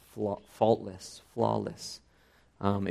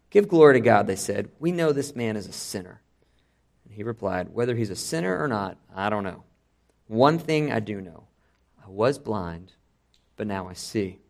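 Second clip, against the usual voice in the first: reading the passage aloud with voiced characters; preacher reading John chapter nine aloud to his standing congregation, dramatically; dramatic scripture reading. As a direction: tell the Gospel story to the congregation, acting the speakers.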